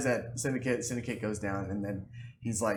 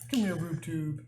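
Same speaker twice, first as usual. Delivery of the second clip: much higher, louder playful call; calling the dog; 6 semitones higher, 10 dB louder, much slower than usual. Real, not acted. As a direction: call the dog over, laughing.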